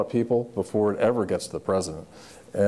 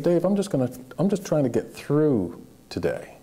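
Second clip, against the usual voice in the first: higher, slightly strained, holding back tears; choked-up president; 5 semitones higher than usual. Retold or imitated. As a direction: voice catching as he admits he is barely coping. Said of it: "he got kind of choked up".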